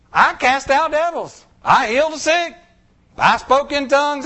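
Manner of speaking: mock pleading boast. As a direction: list your deeds like an indignant defense. Churchgoers protest their works.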